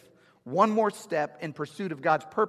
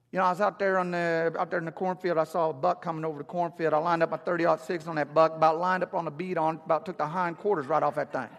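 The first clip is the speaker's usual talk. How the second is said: light impression of a rural Southern country accent. Pastor imitates country friend's hunting story, light country accent. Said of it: "I'll do a little bit of his accent".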